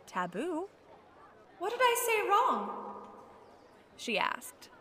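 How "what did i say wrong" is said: put-on high-pitched, bewildered young girl; confused girl. A narrator's reading. Confused girl asking the woman who rebuffed her, high voice. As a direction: voice a girl hurt and puzzled, much higher.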